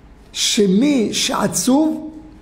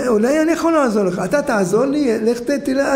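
put-on eager child; 5 semitones higher, faster than usual. Child offers help eagerly.

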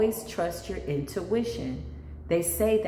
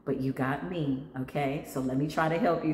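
calm reassurance; 3 semitones lower, 4 dB quieter than usual. Retold or imitated. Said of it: "And I would go".

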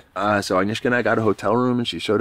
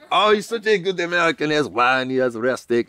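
put-on high, delighted French-accented host; admiring French host; 9 semitones higher than usual. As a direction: gush over him like a proud French mother.

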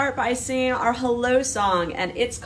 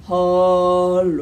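lower, louder bear hello; Papa Bear voice; 5 semitones lower, 4 dB louder than usual. Shown as a demonstration. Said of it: "And then a Papa Bear voice".

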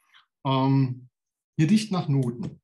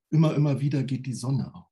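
quoted schlager line; 3 dB louder, faster than usual. Retold or imitated. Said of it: "ein Art Schlager".

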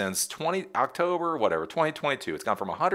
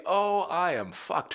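mock panic; 11 semitones higher, slower than usual. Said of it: "is the ... face".

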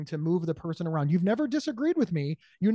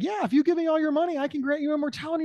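scam man; 9 semitones higher, 4 dB louder, faster than usual. Retold or imitated. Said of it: "that guy will be like".

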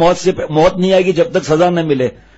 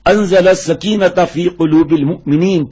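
Quran recitation; 2 semitones higher, slower than usual. Acted. Quran verse quoted in sermon.

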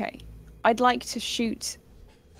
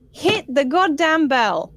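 slow, drawn-out yell; a slow, half-hearted battle yell; yelled line; 3 semitones higher, 4 dB louder, slower than usual. Acted. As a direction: bellow it at the bell. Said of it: "That's not how my character would say it".

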